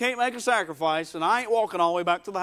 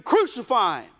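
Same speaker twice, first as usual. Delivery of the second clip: mock shout of an angry crowd; angry mob cry; 3 dB louder than usual. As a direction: call it out like one voice from a mob. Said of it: "somebody's mad".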